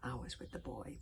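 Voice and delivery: put-on wistful old dragon wheeze, fading away; a touch of breathy melancholy; wheezy melancholy. A narrator's reading. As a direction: let it trail into longing. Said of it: "wheezed the Wodensfang with a deep and longing melancholy".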